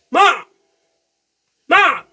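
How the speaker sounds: high, loud whiny calling; needy cat calling. Pretend. Owner voicing her needy cat calling her, high and loud. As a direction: call Mom like a demanding teen. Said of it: "she's like".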